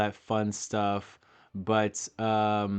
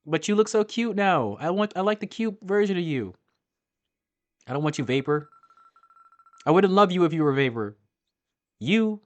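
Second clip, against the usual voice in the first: higher and louder, begging the fairy to stay; loud pleading; 8 semitones higher, 6 dB louder than usual. Real, not acted. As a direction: gush over how cute it is, loudly.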